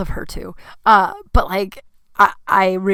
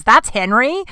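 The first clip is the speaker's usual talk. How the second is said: higher, rising disbelief; incredulous question; 4 semitones higher, 4 dB louder, slower than usual. Retold or imitated. Neighbor can't believe it's Henry, incredulous. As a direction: echo it back, swooping up at the end.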